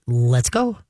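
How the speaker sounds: even, unhurried "Let's go"; calm command. Shown as a demonstration. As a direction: say it calmly to a relaxed dog. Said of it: "then you just calmly say".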